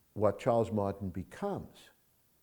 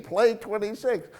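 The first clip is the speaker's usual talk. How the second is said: calm order; 12 semitones higher, 6 dB louder than usual. Retold or imitated. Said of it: "Rick is saying".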